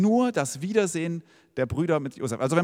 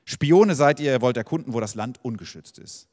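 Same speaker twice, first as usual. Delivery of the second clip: snapping accusation; 2 semitones lower, 3 dB louder than usual. Acted. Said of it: "und er fuhr sie an".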